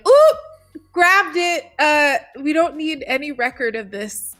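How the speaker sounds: excited. Retold or imitated. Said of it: "I would be like".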